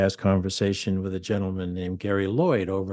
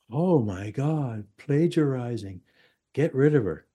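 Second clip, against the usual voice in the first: mock shock; 4 semitones higher than usual. Host mimics accusers reacting to plagiarism claim, mock shock. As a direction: feign scandal, stretching the words.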